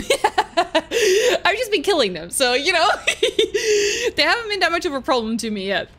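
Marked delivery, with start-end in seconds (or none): 0.1-2.3 slow, laughing repeat; laughing admission, drawn out. Real, not acted. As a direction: chuckle it out slowly. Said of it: "'Cause I've just been killing them".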